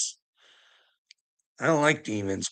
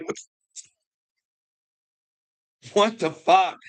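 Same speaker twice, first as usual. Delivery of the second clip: incredulous outburst; 8 semitones higher than usual. Retold or imitated. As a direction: blurt it out in shocked disbelief. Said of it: "And I'm like".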